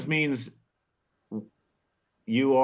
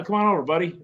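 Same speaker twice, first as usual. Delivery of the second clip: casual, friendly "come on over, buddy"; easy come-on-over tone; friendly invitation; 3 semitones higher than usual. Acted. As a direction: welcome a pal over. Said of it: "it's how you emphasize it".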